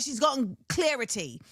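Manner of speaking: CLARITY said like "clear-ity"; put-on British "clarity" with "clear" at the start; British accent attempt. Praising the British rapper, CLARITY said as "clear-ity". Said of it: "That's actually how they say it".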